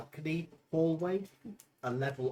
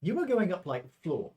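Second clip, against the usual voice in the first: sing-song floor announcements; elevator operator call; 4 semitones higher, 8 dB louder than usual. Acted. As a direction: call out each floor like a lift attendant.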